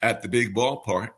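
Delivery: a hint of a folksy radio announcer; lightly voiced, friendly old-time broadcaster greeting; Red Barber's sign-on. Fan recalling his radio buddy, mildly imitating the sign-on. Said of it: "Red would sign on the air literally by saying".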